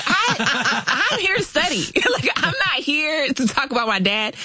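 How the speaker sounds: high-pitched, laughing-edged mock outrage; retold indignation. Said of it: "I was mad because".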